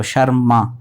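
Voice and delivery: "शर्मा" with a full final aa; corrected pronunciation. Shown as a demonstration. Teacher correcting a misreading, careful full-vowel pronunciation. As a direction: sound the last vowel of "शर्मा", not sharm. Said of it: "अब शर्म नहीं पढ़ना है इसको".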